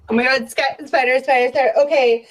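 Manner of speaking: loud startled spider panic. Real, not acted. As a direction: yelp about the spider.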